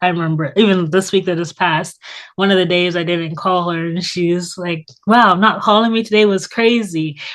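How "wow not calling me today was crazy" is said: mock, light, jokey, playful tone. Retelling what a friend said after a missed call: imitating a friend's jokey tone. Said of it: "She's saying it in a jokey".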